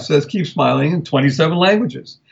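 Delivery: ordinary delivery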